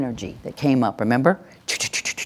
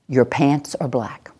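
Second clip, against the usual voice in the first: slow, falling statement of fact; assertive. Shown as a demonstration. Trainer leading the class to repeat after her, assertive. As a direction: state it slowly, with no doubt. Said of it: "we need the voice of no doubt".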